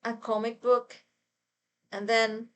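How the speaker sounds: fangirl squealing. Real, not acted. Gushing about casting.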